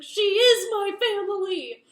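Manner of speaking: very loud, high impassioned yell; acted furious shout. Jace defends his wife to his brother, furious acted shout. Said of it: "goes postal".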